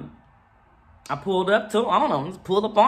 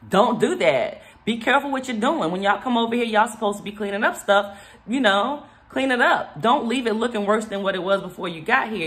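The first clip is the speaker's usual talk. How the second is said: firm, higher scolding of the worker; assertive scolding; 3 semitones higher than usual. Retold or imitated. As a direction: lay down the law, a little heated. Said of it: "a little bit more assertive".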